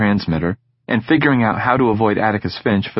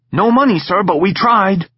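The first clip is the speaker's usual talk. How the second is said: meek plea; 12 semitones higher, 4 dB louder than usual. Acted. Husband pleading meekly.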